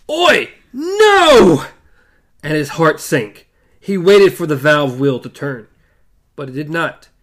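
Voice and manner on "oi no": high crying call; distant cry. A narrator's reading. Jake's scream heard through doors, high cry. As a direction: cry out in horror. Roland hears Jake crying out.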